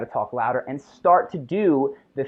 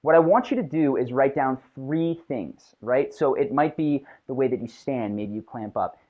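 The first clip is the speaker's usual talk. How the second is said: ordinary talk, nothing marked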